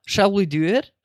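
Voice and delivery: light inviting question; friendly offer. Shown as a demonstration. Showing chat the gentle offering shall, light and inviting. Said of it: "But honestly, if, like".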